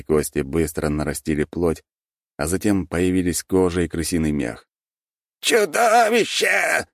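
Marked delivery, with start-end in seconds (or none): 5.4-6.9 high squeaky drawn-out shout; squeaking rat lord. A narrator's reading. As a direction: squeal the word out slowly. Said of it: "пропищал владыка".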